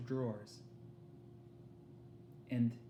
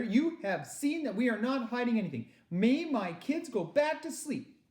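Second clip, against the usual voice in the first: pleading mother; 10 semitones higher, 4 dB louder than usual. Acted.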